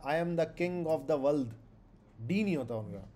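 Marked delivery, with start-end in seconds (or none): 0.0-1.5 put-on slow, heavy German-accented English. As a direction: play a German movie villain, slowly. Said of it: "तो वो बोलेगा". (धीमा German लहजा)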